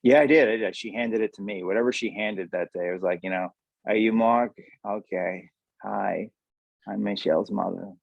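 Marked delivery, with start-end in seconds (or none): 3.9-7.9 impression of mother. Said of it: "not really doing a good impression".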